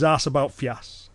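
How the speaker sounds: slow Cumbrian quiz phrase; slow Cumbrian dialect. Shown as a demonstration. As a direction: lay out the Cumbrian dialect slowly. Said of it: "if someone in Cumbria was to say".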